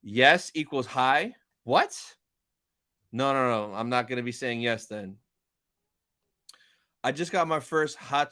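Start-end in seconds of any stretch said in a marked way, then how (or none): 1.6-2.2 shocked what. Real, not acted. Baffled by chat's joke.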